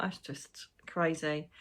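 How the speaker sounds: slow, awed whisper; hushed amazed aside. Real, not acted. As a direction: breathe it out in wonder.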